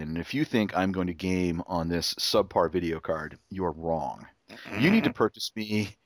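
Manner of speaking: lightly voiced demanding son, "Father," said low and formal; a hint of a spoiled son laying down terms; bossy son. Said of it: "He would say".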